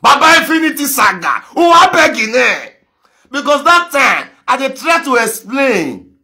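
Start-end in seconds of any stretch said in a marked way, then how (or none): 0.0-2.7 loud call to Baba Infinity. Real, not acted. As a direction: shout it out to him.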